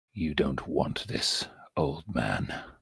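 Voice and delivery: snide, low, hushed hobgoblin half-whisper. The hobgoblin leans over the old man to make a snide remark: hobgoblin half-whisper. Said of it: "he whispers at that point".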